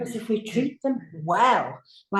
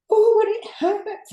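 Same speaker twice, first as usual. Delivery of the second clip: patient in pain; 13 semitones higher, 5 dB louder than usual. Retold or imitated. Patient in pain during breathing.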